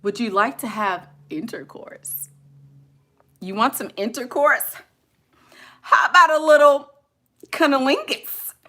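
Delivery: mock-formal bedroom proposition; hammed-up proper diction, each big word placed with care; highly learned talker. Imitating learned people propositioning a lover in big words, mock-formal. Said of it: "they, they just talk like that".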